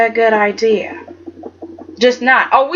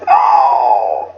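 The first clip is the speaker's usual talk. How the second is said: excited shriek; 12 semitones lower than usual. Real, not acted. Shouting reaction to Katie's line.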